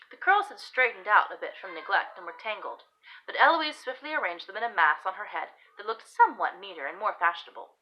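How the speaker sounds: expressive period-romance narration; story narration. Acted. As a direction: read the tale aloud with emphatic key words. Reads own story aloud.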